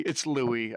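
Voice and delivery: "Louis" as LOO-ee, silent s; name said as LOUIE. Shown as a demonstration. Streamer second-guessing a viewer's name, "Louis" said LOO-ee. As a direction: say "Louis" without the final s. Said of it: "Or is it Louis?".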